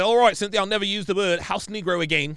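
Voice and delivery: bad New Zealand accent. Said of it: "It's a bad New Zealand accent".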